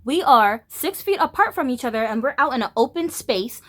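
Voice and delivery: high, sharp scolding; mock-polite then heated scolding; retold scolding. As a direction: put him in his place. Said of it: "I said".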